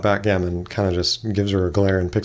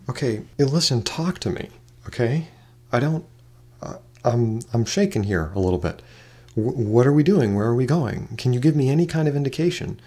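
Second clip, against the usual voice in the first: shaken, exasperated; 3 semitones higher than usual. Acted. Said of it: "rubs her forehead and is like".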